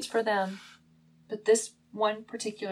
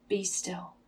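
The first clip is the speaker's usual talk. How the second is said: quiet whisper; 2 semitones lower, 7 dB quieter than usual. Acted. Jesus calming someone anxious in the storm, quiet whisper. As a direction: hush it gently, softer than usual talk. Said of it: "the whisper of Jesus".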